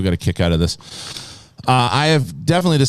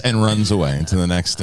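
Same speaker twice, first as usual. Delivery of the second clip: usual speaking voice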